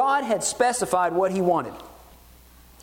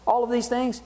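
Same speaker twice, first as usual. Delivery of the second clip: smug self-satisfied people; 5 semitones higher than usual. Retold or imitated. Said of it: "We can think".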